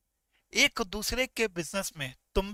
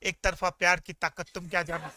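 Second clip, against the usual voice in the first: lightly acted dramatic line, dropping lower; big film dialogue; 4 semitones lower than usual. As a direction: deliver it like a filmi comeback, understated. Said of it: "बहुत बड़ा dialogue दिया". (हल्के फ़िल्मी dialogue के अंदाज़ में)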